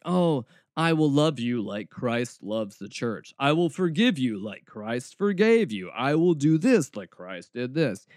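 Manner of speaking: slow, lightly mocked sterile wedding vows; robotic vows. Groom parroting scripted church vows to his bride, mildly robotic. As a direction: recite vows with a touch of robotic stiffness. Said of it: "It's so robotic".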